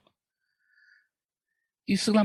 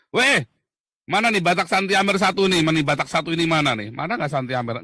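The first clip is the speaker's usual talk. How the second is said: teasing call. Retold or imitated.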